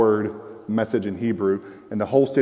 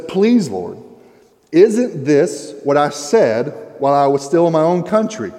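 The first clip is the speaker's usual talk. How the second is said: angry prayer; 3 semitones higher, 4 dB louder than usual. Acted. He's angry at God.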